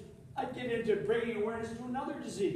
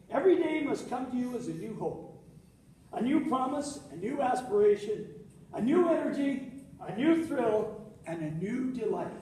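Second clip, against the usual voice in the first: inspirational quote reading. Acted.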